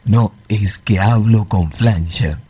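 underwater-sounding flanger voice; talking through a swirling effect. Real, not acted. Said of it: "como si fuese que está abajo del agua". (voz con efecto flanger)

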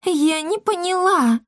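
very high, slow baffled. A narrator's reading. Matchmaker is lost, high and slow. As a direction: puzzle it out.

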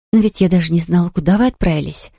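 ordinary delivery

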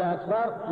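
أكبر said "aaakbar"; long opening vowel on أكبر; hamza of akbar lengthened. Shown as a demonstration. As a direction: stretch the first A of أكبر. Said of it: "فإن مد همزة الله".

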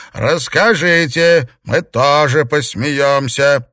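lightly voiced old matriarch calling; old lady calling. A narrator's reading. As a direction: call out slowly and loudly.

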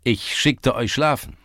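high, loud summons; rallying call; calling them over. A narrator's reading. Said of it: "schrie er und winkte den Burschen zu".

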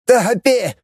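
high, panicked call; wailing shout. A narrator's reading. Anastas screams for the pilot, high and frantic. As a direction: howl the name in panic. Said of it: "завопил Анастас".

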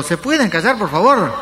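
high, distressed woman begging; mock-anguished, high-pitched request; anguished plea. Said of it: "con voz angustiosa preguntó".

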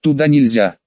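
put-on policeman calling out in Irish accent. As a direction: warn her off with an Irish lilt. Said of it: "с явственным ирландским акцентом".

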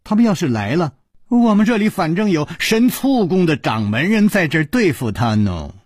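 a snicker, then breezy mockery rising high; amused teasing. A narrator's reading. Song Tian'er joking about the vinegar palace's master, amused. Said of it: "宋田儿扑哧一笑说".

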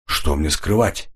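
ordinary delivery, nothing marked

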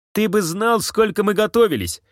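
high-pitched, exclaiming boast; animated boast. Acted. Villain tells the hunter of the long preparation, animated boast.

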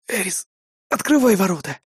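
wounded, breathing the words out; breathless exhale. Acted. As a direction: gasp it out in pain. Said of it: "выдохнул я".

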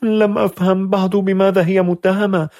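high, frightened mother's voice; a scared mother pleading to understand; trembling mother. A narrator's reading. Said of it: "فقالت والدتها مرتجفة". (أم مرتجفة خائفة بصوت عال)

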